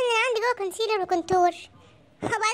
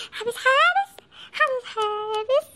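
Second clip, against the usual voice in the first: panicked whimper; 3 semitones higher, slower than usual. Acted. Panicked man fighting possession.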